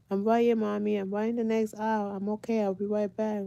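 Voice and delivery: lightly voiced child calling back to mom; imitated child answering. Child answers her mother in story.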